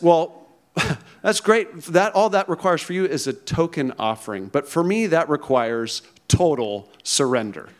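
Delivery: lightly voiced farm pig, amused and smug; pig in a joke. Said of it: "And the pig, of course, says".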